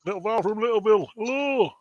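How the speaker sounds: quick high-pitched little hello; playful greeting. Pretend. Playful echo of a chat greeting.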